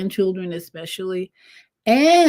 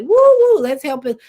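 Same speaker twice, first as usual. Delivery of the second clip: voice of the moon; 7 semitones higher, 7 dB louder than usual. Pretend. The moon's voice, calling out.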